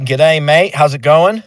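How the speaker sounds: playful mock Australian accent; Australian greeting. Host bringing up a guest with g'day, mock Australian accent. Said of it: "an Australian thing".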